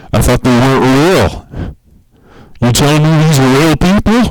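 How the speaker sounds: high, fake-shocked questioning; mock disbelief. To the FBI, a mock-shocked high question.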